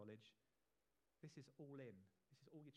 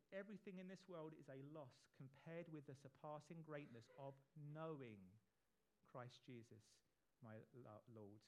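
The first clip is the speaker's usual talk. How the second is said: measured, slower re-reading of the verse; slower again. Shown as a demonstration. Preacher rereads Paul's words properly, slower and measured. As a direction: take it again at an unhurried pace. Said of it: "I'll say it again".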